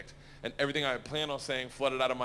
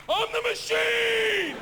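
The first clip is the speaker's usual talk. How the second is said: shouting; 7 dB louder, much slower than usual. Retold or imitated. Drunken battle cry in retold story.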